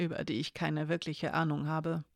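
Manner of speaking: understated murmur, dropping away softly. A narrator's reading. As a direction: start at normal volume and let it sink into a soft mumble. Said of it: "murmelte Elena".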